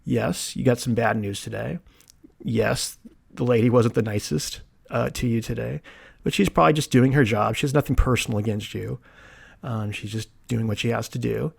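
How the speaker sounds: soft, composed reassurance to oneself; calm self-talk. Retold or imitated. Patient talking himself down after bad news, calm and quiet. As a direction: talk yourself down gently. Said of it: "took a deep breath and just said".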